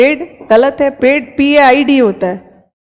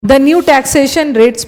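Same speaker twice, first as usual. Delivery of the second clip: very slow reading, new stressed; slow dictation; much slower than usual. Shown as a demonstration. Teacher slowly reading the sentence to the class. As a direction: read The new taxation rates slowly. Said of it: "बस एक".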